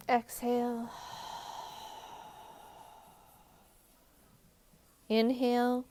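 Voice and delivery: measured, even-toned meditation guide with long pauses; unhurried relaxation-session voice; guided meditation. Real, not acted. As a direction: guide listeners gently through each step, leaving space between phrases.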